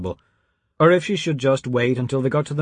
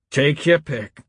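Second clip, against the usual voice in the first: rising challenge; 3 semitones higher, slower than usual. A narrator's reading. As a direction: fling it at them as a dare. Preacher repeats his taunt.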